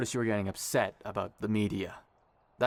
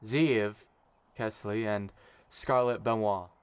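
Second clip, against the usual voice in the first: wedding officiant speech. Acted. Kai officiating the ceremony.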